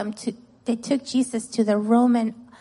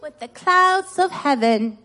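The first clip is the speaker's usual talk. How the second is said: put-on raised call-and-response line for children; pitched-up teacher's prompt; verse to repeat; 3 semitones higher, 4 dB louder than usual. Shown as a demonstration. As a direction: lead the kids in repeating it. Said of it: "Okay, repeat after me".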